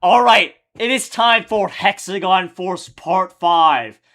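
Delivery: lightly mocking his own upbeat intro; video intro voice. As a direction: open the video like a host kicking off an episode. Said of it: "I'm like".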